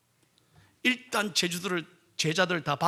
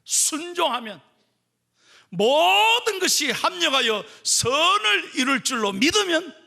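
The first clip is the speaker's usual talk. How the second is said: rising, louder preaching, slowed; 8 semitones higher, 3 dB louder than usual. Acted. Pastor urging the congregation, rising preaching. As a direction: preach it up to the peak.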